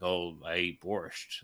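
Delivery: slow, lightly mocking drawl of a cliché; mock Russian stereotype. Mocking the movie's hero, slow and lightly hammed-up. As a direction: draw it out like a cartoon Russian.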